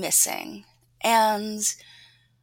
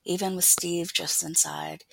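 intimate, hushed first-person reading; story narration. A narrator's reading. Author reading a scene from her novel aloud, story narration. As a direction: read it close and confiding, sliding into a near-whisper.

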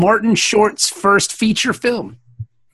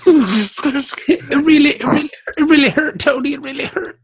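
mock whimpering. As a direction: whimper through it, stumbling over repeats. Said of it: "he's a crier".

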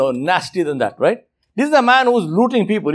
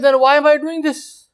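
anguished robber; 5 semitones higher than usual. Retold or imitated. Robber questioning himself, voiced.

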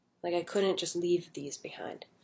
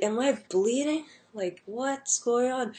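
higher, slow, bewildered question; dazed and confused; 5 semitones higher than usual. Retold or imitated. Coming to on the floor, asking the crowd, mildly confused. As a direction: ask it lost and unsure, a touch scared. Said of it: "And I'm like".

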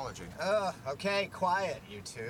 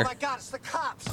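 panicked shout; 12 semitones higher than usual. Acted. Panics at police checkpoint.

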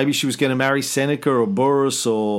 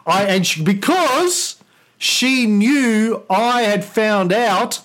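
grand, higher emperor voice; roman orator; 4 semitones higher than usual. Acted. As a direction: address the Senate like Nero. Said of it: "Senate and the people of Rome".

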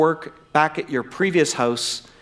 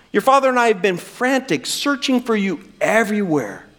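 higher, pressing reproach; mother amping it up; 5 semitones higher than usual. Retold or imitated. Mary scolding Jesus in the temple, amping it up. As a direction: lay on the guilt. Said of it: "She's amping it up".

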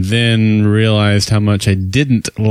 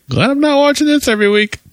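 sarcastic; faster than usual. Retold or imitated. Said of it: "I was like".

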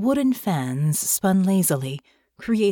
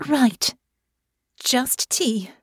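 nervous Honor; 6 semitones higher, much slower than usual. Acted. Honor steels herself, nervous.

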